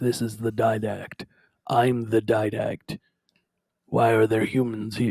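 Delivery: very low, deep, slow raspy voice. Retelling how the audiobook narrator voiced the Didact: raspy Didact voice. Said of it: "he had, like, this raspy voice".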